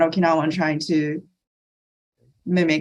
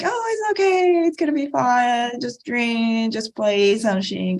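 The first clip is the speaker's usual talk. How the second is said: mock easygoing voice, starting much higher; hammed-up "no worries" stereotype; brushing off failure in a carefree, lightly mocking way; carefree mock reassurance; 4 semitones higher than usual. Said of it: "they're like".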